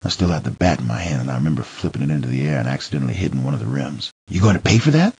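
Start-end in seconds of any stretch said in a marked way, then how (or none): 4.3-5.1 short, sharp retort; snapped. Acted. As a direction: snap the question back at him. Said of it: "she snapped".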